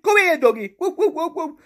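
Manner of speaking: high, loud mock barks with laughter; imitated dog barking. Mocking Alexa as a dog that don't listen, laughing high barks. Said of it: "She's like a dog that don't listen".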